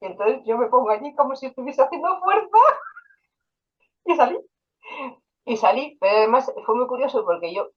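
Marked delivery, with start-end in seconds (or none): 0.0-4.4 laughing. Real, not acted. Laughs acting out her own birth.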